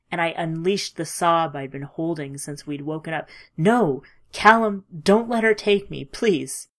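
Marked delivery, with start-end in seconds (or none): 3.6-6.7 desperate pleading shout. Acted. Ethan begging not to vanish.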